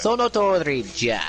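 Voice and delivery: lightly voiced Japanese old man; a hint of an old man. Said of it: "I also said it in the old man voice".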